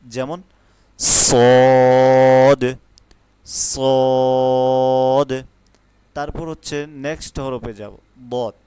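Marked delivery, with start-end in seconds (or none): 1.0-5.4 loud সদ, long and thin; thin sad. Shown as a demonstration. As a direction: say সদ thin and strong. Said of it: "একটু চিকনভাবে হবে".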